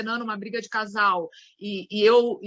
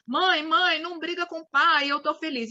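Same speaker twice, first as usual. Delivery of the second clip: higher child's plea, lightly voiced; a hint of a small son begging his mother; filho pedindo; 5 semitones higher than usual. Shown as a demonstration. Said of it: "o filho tá entrando e pula no colo da mãe e fala". (leve voz de criança pedindo)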